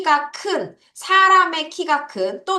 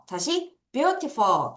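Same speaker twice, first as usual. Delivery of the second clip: slow drill; 3 semitones higher, much slower than usual. Shown as a demonstration. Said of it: "뭐라 그래요?".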